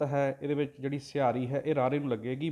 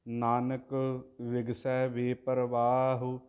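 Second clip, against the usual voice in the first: drawn-out devotional chanting, word by word; slow santhiya recitation of scripture; slow Gurbani recitation; much slower than usual. Shown as a demonstration. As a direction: chant each syllable slowly and evenly, like a granthi. Teacher chants the Gurbani line.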